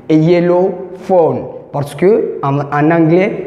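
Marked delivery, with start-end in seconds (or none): 0.1-1.4 A yellow phone, slow; slow clear model for learners; slow model phrase. Shown as a demonstration. (A yellow phone, lentement)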